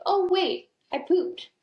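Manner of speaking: put-on very high, cheerful little boy announcing it; toddler's voice. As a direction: squeak it up high like a proud toddler. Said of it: "And he's go".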